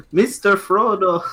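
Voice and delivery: high slow devoted hobbit; lightly voiced hobbit servant; mock Samwise. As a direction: draw out Mister Frodo like a loyal sidekick. Imitating Samwise.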